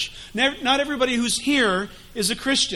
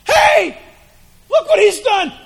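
loud, high, laughing accuser; Satan loudly mocking the sinner; gleeful accusing shout; 8 dB louder than usual. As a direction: yell it out in triumph, pointing. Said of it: "Satan goes".

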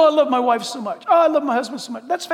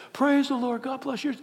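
mock churchgoer greeting; 7 dB quieter than usual. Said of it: "it's like this".

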